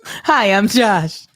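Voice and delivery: drawn-out mocking introduction; slow, exaggerated mimicry; mimicking a friend. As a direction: slowly imitate a friend's bad accent. Mimicking the accent attempt, drawn out.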